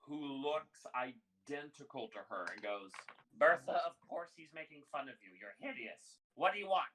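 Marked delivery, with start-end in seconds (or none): 3.4-6.8 lightly voiced blunt old woman; loud opening, dropped insult, raised demand; brusque second barkeep. Identical woman scolds Bertha then turns on customer, brusque.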